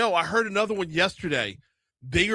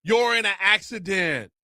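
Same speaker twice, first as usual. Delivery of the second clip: ad narrator. Retold or imitated. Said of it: "there's another one".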